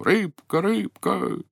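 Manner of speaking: calling out. Acted. Old man calls the golden fish from shore, calling out. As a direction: call the fish across the water. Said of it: "крикнул громким голосом".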